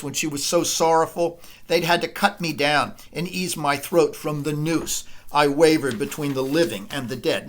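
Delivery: dramatic reading. Acted. Lecturer reading Clytemnestra's speech to the class, dramatic reading. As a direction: give Clytemnestra's lament like a stage actor.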